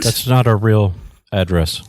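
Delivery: flat robot cabbie voice; deadpan like a dumb robot taxi; sarcastic robot monotone. Pretend. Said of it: "he's the sarcastic robot cabbie".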